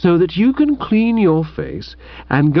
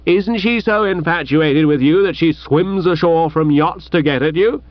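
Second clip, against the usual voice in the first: scoffing retort; 4 semitones higher than usual. Acted. Bertie's ha-ing retort, high pitch.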